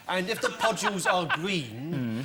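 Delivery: slow, measured folk-rhyme delivery; slow rhyme recital. Pretend. Panellist recites seaweed lore to the host, slow rhyme recital. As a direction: draw out the forecast like old weather lore.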